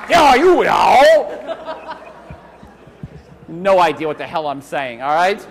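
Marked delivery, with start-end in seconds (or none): 0.0-2.0 Diaoyu Dao shouted with a laugh; playful loud copy of Diaoyu Dao; imitating shout. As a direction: echo the student's yell, laughing. Echoing the student's shout.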